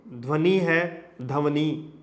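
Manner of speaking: "ध्वनि" said first correctly as dhvani, then broken up as dhavni; mispronounced word. Shown as a demonstration. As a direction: slowly contrast "ध्वनि" and the sloppy dhavni. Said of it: "ऐसा बोल देंगे".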